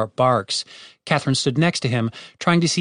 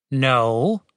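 patient. Acted. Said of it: "said Tim patiently".

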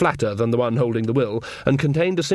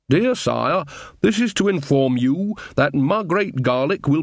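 stilted, deliberate letter reading; letter read aloud; 3 semitones higher than usual. Acted. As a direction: read out a homespun letter, slightly higher and measured.

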